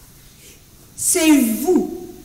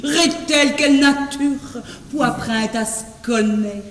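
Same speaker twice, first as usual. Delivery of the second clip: sultry voice; 3 semitones lower than usual. Shown as a demonstration. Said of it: "une voix langoureuse".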